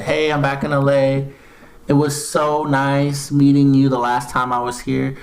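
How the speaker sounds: a lightly voiced flirty woman reading her own text; put-on voice. Host reads Mia's DM to Gilbert in a light put-on voice. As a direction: read her DM as if she were saying it, mildly flirty. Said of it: "You don't have to do the voice".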